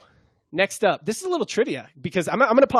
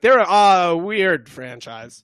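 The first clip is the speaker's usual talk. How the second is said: slow, louder mock of the kid; imitating the kid; 5 dB louder, much slower than usual. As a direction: drag out the kid's words in a teasing imitation. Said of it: "but he was like".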